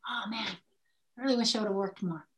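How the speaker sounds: low, soft sigh of regret; imagined regret. Acted. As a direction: voice a dying person's regret, low and subdued.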